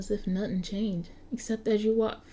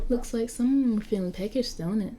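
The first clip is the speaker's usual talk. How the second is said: put-on Cockney accent; 3 semitones higher, 3 dB louder than usual. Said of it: "with a thick Cockney accent".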